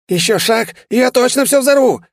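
high, loud desperate threat; hysterical shriek. A narrator's reading. Demon shrieks his last threat at the hero, hysterical. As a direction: shriek it, losing control. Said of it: "истерично выкрикнул он".

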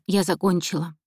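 ordinary delivery, nothing marked

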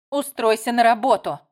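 loud cutting retort; curt retort. Acted. Melissa snaps at her younger sister, loud and curt. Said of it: "бросила Мелисса".

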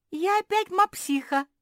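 высокий громкий радостный возглас; ликуй, снова став мопсихой; ликуя. A narrator's reading. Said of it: "заликовала Куки". (высокий громкий ликующий возглас)

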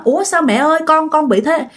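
acted mother's shocked question; startled alarm. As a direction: ask in mild alarm what happened. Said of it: "bà Sang mới hết hồn".

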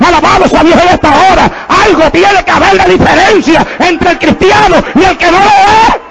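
driving sermon cadence, climbing in pitch to the end; fervent preaching. Real, not acted. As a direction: hammer out each contrast to the congregation. Preaches at full force.

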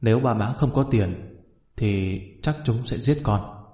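understated, sorrowful plea on paper; subdued letter reading. A narrator's reading. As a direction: read out a desperate letter, slowing at the end. Reads the son's letter aloud.

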